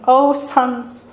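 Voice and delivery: high, loud, anguished pleading to her dead sons; a mother crying out over her sons' bodies. Retold or imitated. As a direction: beg God through the grief. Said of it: "I imagine her crying out to them".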